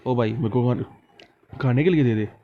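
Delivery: a mildly rude, pushy request for food; mock rude "give me food"; rude demand. Shown as a demonstration. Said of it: "ऐसे थोड़ी ना बोलते हैं".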